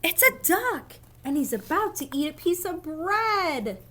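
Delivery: high insistent declaration; insistent duck voice. Acted. Duck believer insists to the other reader, high.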